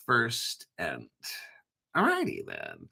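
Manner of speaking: low goofy catchphrase; deep goofy voice. Acted. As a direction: drop low for a goofy line. Comic catchphrase voice.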